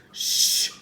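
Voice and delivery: unvoiced urgent shush; hushing. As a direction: silence her at once. Jack hushing Annie.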